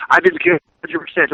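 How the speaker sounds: high mock coach rant; a hint of a furious coach; mock angry coach. Coach scolds the team about effort, mock rant. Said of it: "He's like".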